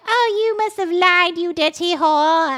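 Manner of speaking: high, loud melodramatic outcry; hammed-up accusation. In-laws accusing the bride over the pots, hammed-up accusation. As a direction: fling it out in mock outrage.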